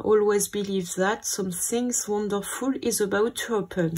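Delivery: English read aloud with a French accent; real French accent on English words. Real, not acted. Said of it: "mon super accent anglais".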